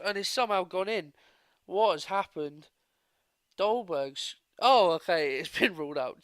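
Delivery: baffled outburst breaking into relief; startled disbelief. Real, not acted. Goal goes in, then ruled out.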